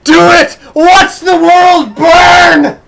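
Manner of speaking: high, loud mock-villain shout; whooping shout, stretched out at the end; gleeful egging on. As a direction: cheer on the chaos, hammed up. Gleefully eggs the reader on.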